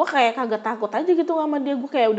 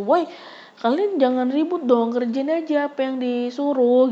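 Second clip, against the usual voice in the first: angry scolding; 3 semitones higher than usual. Retold or imitated. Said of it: "gue tuh marah gitu".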